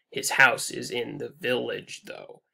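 steady beat up to "village", then let "though" drop right off; dropping off. Shown as a demonstration. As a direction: stress the first syllable of "village" and let "though" fall away. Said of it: "dropping off".

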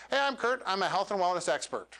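rushed, no pause before the question; rushed intro. Shown as a demonstration. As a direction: run the intro together without a breath. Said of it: "He went, "Vroom".

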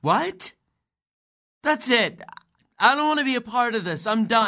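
high, fast indignant refusal; shocked anger. Acted. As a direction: snap and pull away from it.

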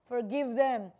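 loud retold cry to the Father; imitated shout of Jesus. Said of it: "sumisigaw ang Panginoong Yesus ng".

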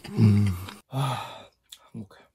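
words around food; talking while chewing. Real, not acted. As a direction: mouth partly full of noodles. Seen 0: Slurped noodles just before; mouth still working while he talks.

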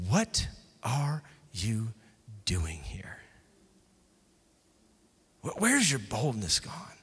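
hushed, slow whispered question. Shown as a demonstration. The Holy Spirit questioning the church, whispered. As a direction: breathe it out as a gentle whisper. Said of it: "the Spirit asks the church".

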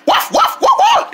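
string of high puppy barks; quick high woofs; dog barking. Acted. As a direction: yap like a little dog. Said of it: "the dog likes you too".

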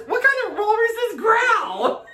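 laughing, slow and high. Real, not acted. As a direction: laugh through the question. Laughing disbelief at the answer.

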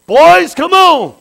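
high, loud, very slow call; a devil calling his boys in, hammed up; voicing the devil. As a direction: drag out the invitation. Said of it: "he's like".

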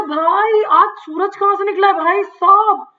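lightly played surprised schoolmaster; imitating M Hamel. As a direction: tease like a stunned teacher asking where the sun rose. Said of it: "उसने कहा".

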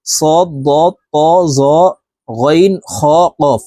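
সদ, দ, ত, জ, গইন, খ, কফ each said with a full, heavy back-of-mouth sound; heavy, rounded articulation from সদ through কফ; heavy letters. Shown as a demonstration. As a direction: list সদ to কফ as thick emphatic Arabic letters. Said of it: "মোটাভাবে উচ্চারণ করিয়া পড়িতে হয়".

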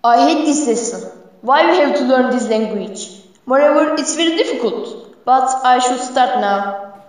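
put-on Turkish accent. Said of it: "He is in Turkish accent".

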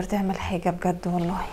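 soft, weary whisper of exasperation; fed-up murmur. Acted. Stepmother quietly telling her husband she's had enough, whispered. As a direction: sigh it out under your breath.

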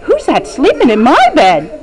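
quick, lightly voiced little bear asking "Who's that sleeping in my bed?"; a hint of a small bear, brisk and fast; Baby Bear voice. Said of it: "What did Baby Bear say?".

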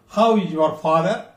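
how is your father, lifting on father; rising tone. Shown as a demonstration. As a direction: friendly question rising at father. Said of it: "we should raise our tone".

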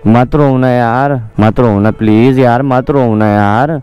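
low, slow soothing plea; real pleading, pitched low and drawn out; coaxing plea. Real, not acted. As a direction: gently coax them to stop crying. Boyfriend consoling his crying girlfriend.

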